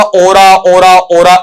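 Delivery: ओरा said with a plain final aa, as people usually say it; common wrong way. Shown as a demonstration. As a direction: say ओरा ending on a long aa. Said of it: "इस तरीके से सुनते हैं".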